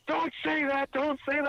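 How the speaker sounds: high, sharp repeated warning; imitating an alarmed wife; scolding wife. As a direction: shut the word down fast.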